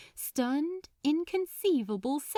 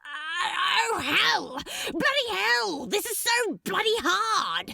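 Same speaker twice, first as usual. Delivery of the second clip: louder, higher exasperated cursing; frustrated outburst; 8 semitones higher, 4 dB louder than usual. A narrator's reading. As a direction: burst out in frustration at yourself.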